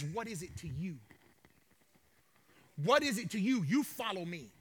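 quiet, firm Jesus; stern rebuke. Acted. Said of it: "Jesus gives him a stern rebuke".

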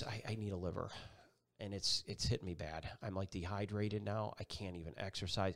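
a hint of holding back tears; mildly choked, quiet confession. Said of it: "a little choked up".

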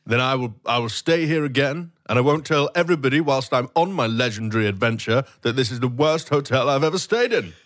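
haughty guest. Acted. Fuming guest sets hotel terms.

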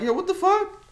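high, loud outraged yelp; mock shock. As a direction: act out a shocked protest. Acts out shocked man's reaction.

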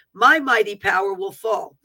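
forceful declaration with punched openings; prophetic proclamation. Acted. Speaking as the Lord to the nation, solemnly proclaimed. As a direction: proclaim it as a solemn divine decree. Reads prophecy as God's words.

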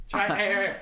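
hammed-up Southern twang; Southern accent. Shown as a demonstration. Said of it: "you gotta sound like this".

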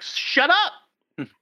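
exasperated high-pitched outburst; mock shout. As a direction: snap back in a high exasperated yell. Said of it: "It's like".

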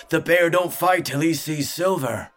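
high, loud ringmaster's bark; forceful showman's shout. A narrator's reading. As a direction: bark terms at the crowd. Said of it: "he barked".

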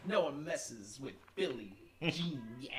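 slow, drawn-out Italian-accent imitation; imitated Italian accent. Recruiter imitating a smug teen applicant, in Italian accent. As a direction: put on a leisurely Italian accent. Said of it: "he had, like, this Italian accent".

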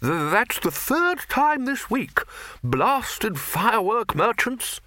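put-on high, slow grumbling old wizard; lightly voiced irritable wizard; grumbling Arch-Chancellor. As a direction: mutter your complaint as the gruff master. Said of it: "muttered the Arch-Chancellor".

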